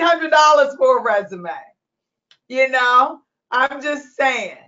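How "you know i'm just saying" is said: normal talking voice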